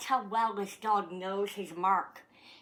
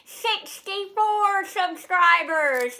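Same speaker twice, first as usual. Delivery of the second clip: proud fanfare; 9 semitones higher, 10 dB louder, much slower than usual. Real, not acted. Repeating the count.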